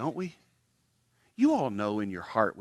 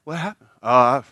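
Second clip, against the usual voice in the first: louder, hammed-up humblebrag; humblebragging churchgoer; 3 semitones higher, 9 dB louder than usual. Churchgoer humblebragging about serving at church, hammed-up. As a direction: drop your good deeds casually but loudly. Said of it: "blow the horn and say stuff like".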